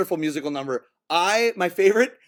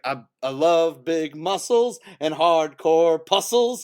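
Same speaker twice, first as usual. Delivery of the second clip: slow, relished movie quote; slow imitation of an admiring film heroine; imitated movie line; 3 semitones lower, slower than usual. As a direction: savor each phrase, drawing it out. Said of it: "lines that she says in the movie".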